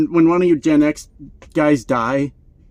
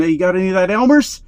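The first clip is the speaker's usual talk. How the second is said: fast, a bit higher begging ask; eager kid voice; 4 semitones higher, 4 dB louder, faster than usual. Retold or imitated. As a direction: hustle a classmate for glue. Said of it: "walking up to their friend".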